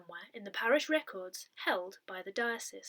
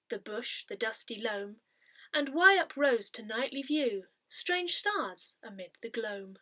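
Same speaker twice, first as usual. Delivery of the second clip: poem recitation. Acted. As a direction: recite it gently, letting each line settle. Reading Hardy's poem Drummer Hodge.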